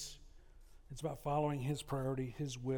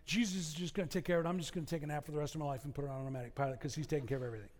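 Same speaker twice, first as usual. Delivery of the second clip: lazy passive voice; 2 semitones lower, 3 dB quieter, much faster than usual. Retold or imitated. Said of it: "The passive voice would be like".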